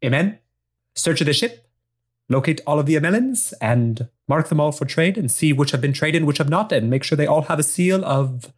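put-on Spanish accent, brisk orders; Spanglish accent. Young lieutenant ordering her men to search, Spanish accent. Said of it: "a Spanglish woman".

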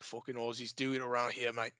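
a light Australian twang, tossed off; lightly put-on Australian accent, quiet and casual; mock Aussie accent. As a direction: play a cocky Aussie local. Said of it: "welcome to the land down under".

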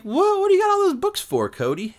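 very high, mock-astonished question; squeaked-up, loud mock bafflement; retold surprise. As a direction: imitate someone taken aback. Retold surprise at box of books.

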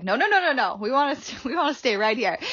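high, squeaky protest of a stubborn brain; mock inner voice. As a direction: play the brain whining no, lightly laughing. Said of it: "my brain was like".

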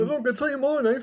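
high, loud snappy caller voice; rude caller. Pretend. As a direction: play a shrill rude caller.

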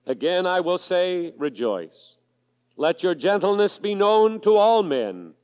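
measured, solemn Bible reading; scripture reading. Acted. Preacher to congregation, solemn scripture reading. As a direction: read it out as God's Word to the church.

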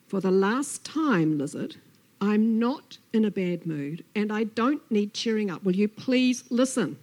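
loud, emphatic snake at the end of patience; exasperated Snake. Acted. Snake warns Lizard for the last time, exasperated. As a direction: hit each protest hard.

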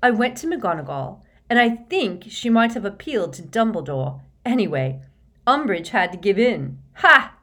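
rally the team with triumphant urgency; excited team captain. A narrator's reading. Excited captain reporting news, giving orders.

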